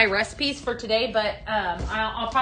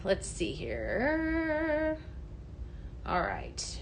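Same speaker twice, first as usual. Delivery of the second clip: slow, soft thinking aloud; softer, stretched mumble to herself; drawn-out musing; 11 dB quieter, much slower than usual. Real, not acted. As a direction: trail it out quietly while reading. Reading comments, very slow.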